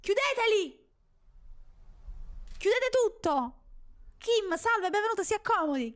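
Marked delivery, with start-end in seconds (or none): 0.0-3.6 high, louder urgent orders; panicked shouting. Real, not acted. Panicked orders to close everything. (ordini urlati in preda al panico)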